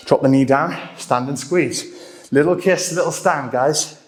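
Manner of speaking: breathless, puffing between words; out of breath mid-workout. Real, not acted. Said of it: "I'm starting to get out of breath".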